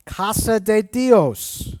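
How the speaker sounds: slow Spanish "Casa de Dios"; Spanish words. Shown as a demonstration. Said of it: "means house of God".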